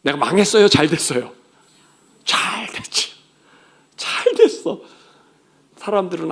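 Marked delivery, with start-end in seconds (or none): 2.2-4.8 triumphant answer. Acted. Answering own question triumphantly.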